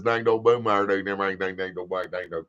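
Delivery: light imitation of run-on gibberish; Rhino. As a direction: imitate garbled talk running together. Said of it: "like Rhino says".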